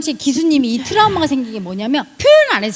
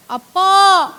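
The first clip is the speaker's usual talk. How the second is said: crying demo; 6 semitones higher, slower than usual. Shown as a demonstration. Healer demos crying out to father, mock tearful. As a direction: show how to cry it out. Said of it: "이렇게 울어냅니다".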